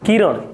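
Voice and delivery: किरण ending in a retroflex ण; retroflex final sound. Shown as a demonstration. Teacher naming the new physics term for students, retroflex किरण. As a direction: say किरण with the tongue curled back on the last sound. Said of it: "किरण नहीं".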